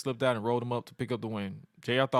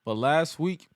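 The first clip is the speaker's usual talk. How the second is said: boring tone; 3 semitones higher, 3 dB louder than usual. Retold or imitated. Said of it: "I'm gonna say this in the most boring tone ever".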